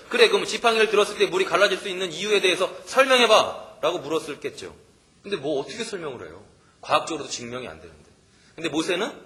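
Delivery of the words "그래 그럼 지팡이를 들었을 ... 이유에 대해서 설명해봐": snide taunt. Pretend. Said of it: "깐죽깐죽거리는 사람들은 얘기했을".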